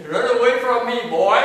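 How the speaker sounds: high, booming playful holler; mock send-off shout. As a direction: holler it to shoo the child off. Acts parent shooing child off.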